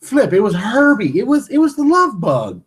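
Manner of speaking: high, squealing laughter through the words; laughing. Real, not acted. Friends laughing about crying over Herbie, squealing.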